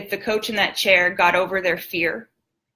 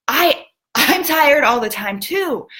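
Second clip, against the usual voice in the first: higher, slow, earnest admission; retold slow eager confession; excited confession; 6 semitones higher than usual. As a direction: slowly own up, hope rising. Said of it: "just getting super excited".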